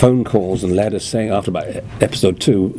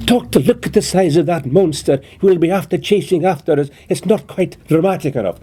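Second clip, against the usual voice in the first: Highland Scottish accent, pitched higher; Jamie's stiff Highland version, higher; 8 semitones higher than usual. Shown as a demonstration. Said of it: "with a Highland accent".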